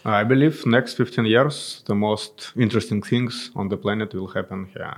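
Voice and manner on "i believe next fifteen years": usual speaking voice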